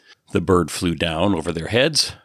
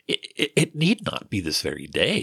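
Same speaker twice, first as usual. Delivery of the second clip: flustered stammer on the first words; nervous stammer; stuttering; 3 semitones higher than usual. Acted. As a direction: trip over "It, it, it" before getting it out. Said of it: "he stuttered".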